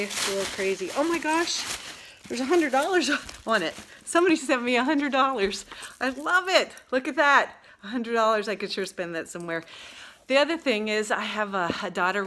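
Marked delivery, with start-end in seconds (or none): 1.0-8.5 high, loud thrilled exclamation; overjoyed at the surprise money; excited. Real, not acted. Finds a hundred dollars.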